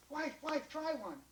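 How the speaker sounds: high, excited pleading; eager urging. Acted. John runs home to his wife, eager. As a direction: press it on the listener eagerly.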